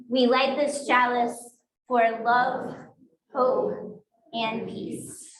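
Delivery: "We light this chalice" recited with a pause before each of "love", "hope" and "peace"; slow unison recitation. Shown as a demonstration. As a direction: lead the congregation, word by word. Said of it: "say these words together".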